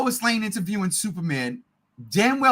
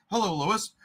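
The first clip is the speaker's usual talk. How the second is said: deep Superman voice; 3 semitones lower, 5 dB quieter than usual. Retold or imitated. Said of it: "all of a sudden he's like".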